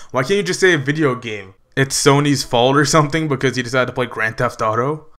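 ordinary delivery

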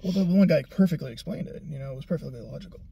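deadpan sarcastic praise. Real, not acted. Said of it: "I'm being sarcastic".

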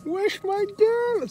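drawn-out high slangy greeting; french street slang. Real, not acted. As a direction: greet him like a street buddy. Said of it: "c'est devenu mon collègue".

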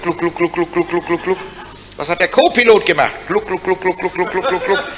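soft imitated gulping, gluck gluck; quiet glugging noises; gluck gluck sound. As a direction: mime gulping drinks. Gorilla mimes drinking.

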